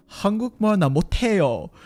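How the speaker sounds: 한국말 나 못해요 blurted fast and loud; mom's way, loud. Retold or imitated. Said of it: "she explained me saying".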